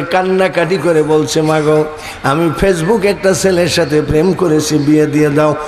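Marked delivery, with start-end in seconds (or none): 1.4-5.6 mock tearful plea. Crying daughter threatens poison.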